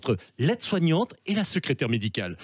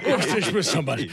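Sarkozy impression. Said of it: "monsieur Sarkozy".

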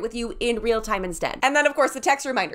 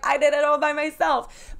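bragging; 5 semitones higher than usual. Pretend. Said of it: "like, brag moment".

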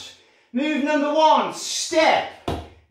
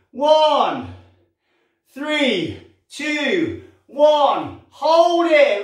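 steady coach counting reps with pauses; 2 semitones lower, much slower than usual. Shown as a demonstration. Fitness class rep counting.

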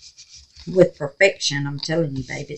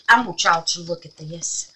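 teary; 3 semitones lower, 5 dB quieter than usual. Real, not acted. Touched by gift, crying.

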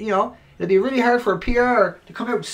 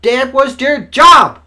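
angry shout; 6 semitones higher, 12 dB louder, much slower than usual. Real, not acted. Angry climax about police.

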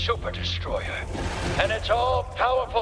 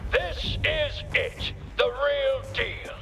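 slow barked order, raised voice; shouting drill sergeant; 3 semitones higher, slower than usual. Acted. Drill instructor shouting in game.

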